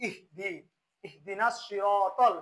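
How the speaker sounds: ইহদিনাস সিরাতাল recited with a closed H after ই, long vowels held; correct recitation. Shown as a demonstration. Teacher models the verse for learners, correct slow recitation of ইহদিনাস সিরাতাল. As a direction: draw out সিরাতাল slowly, keep ইহ closed. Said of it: "তারা বলতে হবে কি?".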